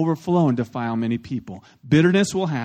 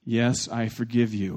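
slow, deliberate; 5 semitones lower, 4 dB quieter, slower than usual. Shown as a demonstration. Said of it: "Here's four magic words for you".

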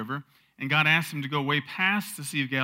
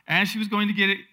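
louder, higher, building reading; emphatic rereading; 5 semitones higher, 5 dB louder, faster than usual. A narrator's reading. Preacher rereads the verse to the congregation, emphatic. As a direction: reread it with rising energy and volume.

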